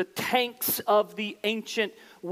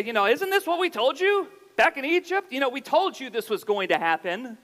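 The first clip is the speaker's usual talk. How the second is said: sarcastic I told you so. Retold or imitated. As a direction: rub it in with scorn. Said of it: "their sarcasm then pivots".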